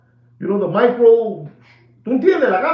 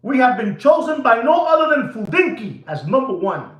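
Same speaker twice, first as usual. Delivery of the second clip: proud shout; 3 semitones higher than usual. Real, not acted. Boasting loudly.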